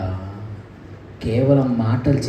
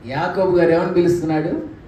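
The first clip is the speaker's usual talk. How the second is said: usual speaking voice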